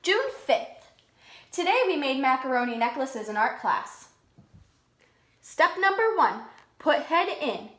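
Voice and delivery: lively storybook voice for the class; kids' story read-aloud; reading to children. A narrator's reading. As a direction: read it out like a picture book to kids. Teacher reads picture book aloud.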